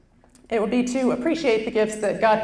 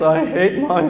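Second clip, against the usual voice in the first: normal talking voice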